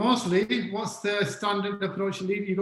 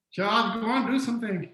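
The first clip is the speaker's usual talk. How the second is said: higher, restrained imitation of yelled orders; mock scream; 4 semitones higher than usual. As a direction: pretend to scream at the team without full volume. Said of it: "you're screaming at them".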